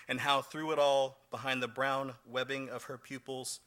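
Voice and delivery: measured recital of a personal poem; poetry reading. Acted. Poet recalling shame and a son's birth, measured poetry reading. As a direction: read it line by line with deliberate pauses. Resumes poem after slip.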